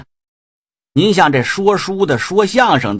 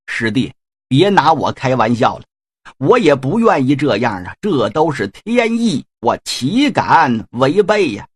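lightly voiced weary old man; humble old sage. Ziya answers humbly.

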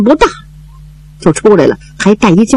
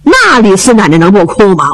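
usual speaking voice

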